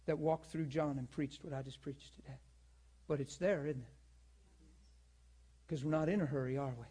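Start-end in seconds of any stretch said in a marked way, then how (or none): none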